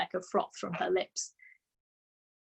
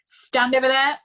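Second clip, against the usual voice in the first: loud, higher barked command; ordered; 6 semitones higher, 8 dB louder than usual. A narrator's reading. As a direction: order him aside sharply. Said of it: "the Trunchbull ordered".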